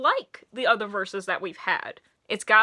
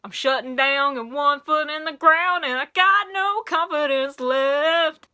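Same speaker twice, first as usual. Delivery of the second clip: put-on Southern accent; 2 semitones higher, 4 dB louder than usual. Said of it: "you can hear it already coming out".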